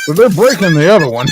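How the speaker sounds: loud, fast gleeful; excited. Real, not acted. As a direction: rush it out, thrilled. Excited at window break.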